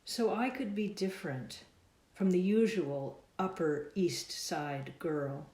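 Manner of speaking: measured, deliberate verse delivery; slow poem reading, words drawn out at line ends; poetry reading. Acted. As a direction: recite line by line, pausing after each. Reads own poem aloud.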